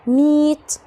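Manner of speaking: MEET with a long ee. Shown as a demonstration. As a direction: hold the ee in "meet". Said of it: "أعرف إن دي اللونج إي". (نطق meet بصوت إي طويل)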